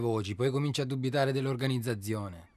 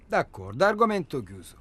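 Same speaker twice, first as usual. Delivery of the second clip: louder, higher, closing it off; defensive anger; 5 semitones higher, 5 dB louder than usual. Acted. Answering his partner's outburst, defensive and loud. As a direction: push back hard and end the topic. Quarrel about children.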